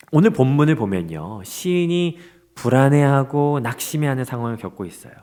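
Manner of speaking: ordinary talk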